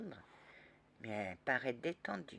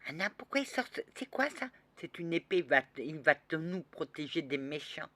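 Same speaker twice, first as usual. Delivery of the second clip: put-on little girl voice; 3 semitones higher, 4 dB louder than usual. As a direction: ask like an amazed small girl. Child asks about sword.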